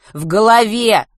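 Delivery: loud, high exclamation; emphatic answer. A narrator's reading. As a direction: call it out insistently. Boy insists to doctor.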